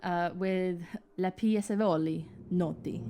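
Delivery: names said in a light Italian accent. Shown as a demonstration. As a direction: roll the Italian names with some flair. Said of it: "I'm gonna have to do an Italian accent slightly".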